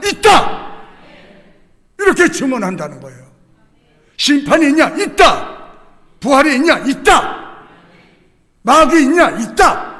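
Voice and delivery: loud, high call and shouted answer; preaching at full force. Acted. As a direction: proclaim each answer like a verdict.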